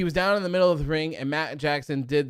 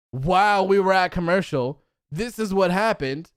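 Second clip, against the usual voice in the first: louder, sarcastic parody of the announcers; mocking the broadcast; 3 semitones higher, 4 dB louder than usual. Fan mocking the show's commercial excuse, sarcastic. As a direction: sneer it like a smug TV host. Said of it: "they have the nerve to say".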